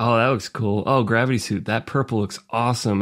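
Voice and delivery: ordinary talk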